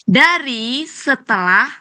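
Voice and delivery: slow, drawn-out words with pauses between phrases; model translation reading. Shown as a demonstration. Teacher showing students how to translate, slow and measured. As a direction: dictate it word by word. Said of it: "Boleh gini ngartiinya".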